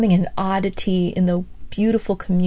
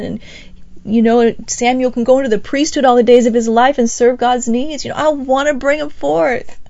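pleading Hannah; 3 semitones higher, 4 dB louder than usual. Retold or imitated. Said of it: "she's going".

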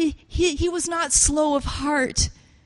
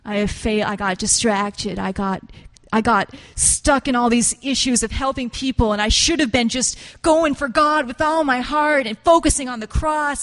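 broken magi; 3 dB louder than usual. Acted. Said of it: "His spirit breaks within him".

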